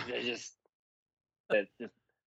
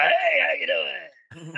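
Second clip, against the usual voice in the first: ghostly skeleton voice; 9 semitones higher, slower than usual. Acted. Skeleton guest's spooky voice.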